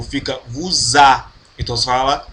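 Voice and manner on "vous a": vous a run together with a Z sound; linked liaison. Shown as a demonstration. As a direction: join vous and a with a Z. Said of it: "quando você fala junto ao verbo". (vous a ligado com som de Z)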